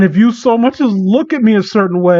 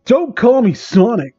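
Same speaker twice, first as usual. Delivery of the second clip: mock villain shout; 4 semitones higher than usual. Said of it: "He shouts".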